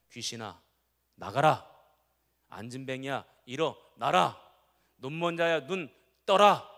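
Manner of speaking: loud, bold commands to spirits and the sick; commanding prayer. Retold or imitated. Preacher voices Jesus commanding the demons to leave, loud and bold. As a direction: proclaim each order with full authority. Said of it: "뭐라고 기도하셨냐면".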